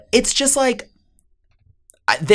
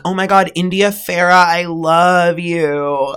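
gushing fan; 4 semitones higher, slower than usual. Retold or imitated. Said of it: "being like".

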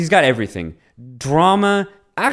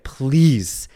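laughing mock plea, slow and drawn out; pleading; 3 dB louder, much slower than usual. Player begging the defender to stop, laughing plea. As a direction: beg through laughter. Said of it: "He's pleading with Salvador".

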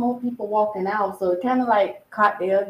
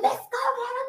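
mock yell. Fan calling out from a rolling car, mock yell. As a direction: pitch it way up, imitating a shouted greeting. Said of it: "the girl yelled out the window".

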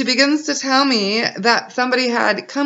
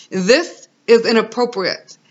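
mildly firm retold rebuke, THIS set apart; lioness-like firmness. Mother retells five-year-old standing up to someone exposing themselves, mildly firm. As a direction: put your foot down, lightly imitating a brave child. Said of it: "she rises up like a lioness".

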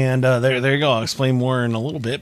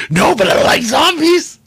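put-on much higher, slow, louder kid's voice; little son's voice; 14 semitones higher, 7 dB louder than usual. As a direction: whine it out like a four-year-old who wants zombies.

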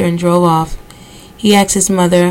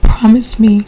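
breathless whispered plea; 4 semitones higher than usual. A narrator's reading. Isabel begging Rufus for revenge, whispered plea. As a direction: whisper it pleading to her son. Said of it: "Isabel simpered".

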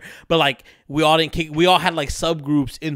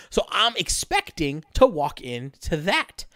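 cracking voice, slow; slower than usual. Real, not acted. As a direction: voice cracks mid-sentence. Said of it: "Okay, my voice cracked".

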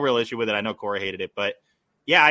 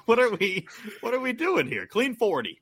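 laughing exasperation; 9 semitones higher than usual. Retold or imitated. Mocking the late-night shows.

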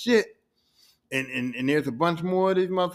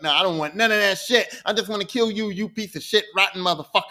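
louder, hard-edged Sylvie telling Loki off; angry refusal; 2 semitones higher, 3 dB louder than usual. Acted. Sylvie rejects Loki's offer, angry and loud. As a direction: spit it at him like you want him dead.

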